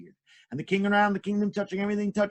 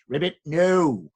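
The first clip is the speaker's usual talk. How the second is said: frog puppet; 4 dB louder, slower than usual. Acted. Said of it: "frog language".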